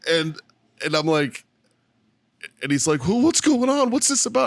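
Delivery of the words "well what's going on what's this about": high-pitched mock panic; whiny, high voice imitating distress; imitated tearful panic. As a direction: play a crying man losing his mind. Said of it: "he's crying and shit".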